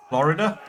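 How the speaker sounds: "Florida" in three syllables, rising like a question; trying out pronunciation. Shown as a demonstration. Streamer testing his own "Florida" for viewers, three syllables, questioning. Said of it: "questioning how I say it".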